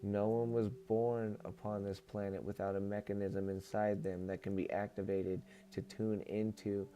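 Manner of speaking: even, measured reading voice; book read-aloud. Acted. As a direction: read it out as a solemn channeled message. Reads channeled book aloud.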